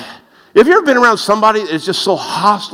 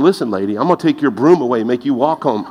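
mock fleshly retort; 5 semitones lower, faster than usual. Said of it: "I feel like saying".

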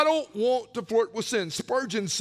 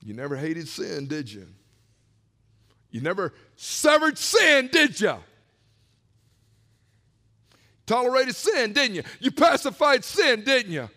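preached challenge; 4 dB louder than usual. Real, not acted. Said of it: "preacher confronting congregation".

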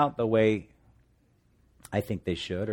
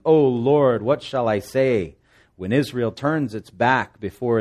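anguished lament; 6 dB louder than usual. Acted. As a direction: wail it out like a man in mourning. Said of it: "And Joshua said".

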